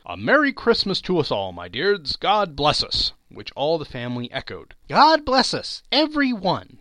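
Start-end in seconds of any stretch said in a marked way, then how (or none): 0.1-3.1 hearty toast. Acted. Bob's festive toast to family. 4.9-6.8 put-on high, small child's voice; Tiny Tim. Tiny Tim answering his father's toast in a high child voice. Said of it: "said Tiny Tim".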